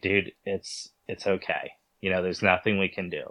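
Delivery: soft, gentle consoling to a let-down friend; quiet reassurance. Retold or imitated. Hunter softly consoling his upset young partner, quiet and gentle. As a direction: ease him down softly, it's okay.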